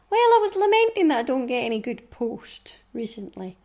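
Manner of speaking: breathy whispered grumble, hammed-up; mock whispered lament. Grumbling to listeners about boring post, mock whisper. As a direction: whisper it like a woeful confession.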